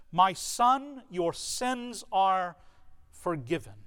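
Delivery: a tender declaration trailing into a hush; tender pronouncement. Acted. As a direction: let the words land slowly, fading away. Jesus' words spoken to the man.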